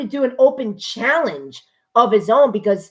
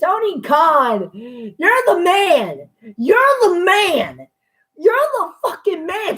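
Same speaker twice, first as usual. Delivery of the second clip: gushing praise; 5 semitones higher, slower than usual. Real, not acted. Praising Tony Khan.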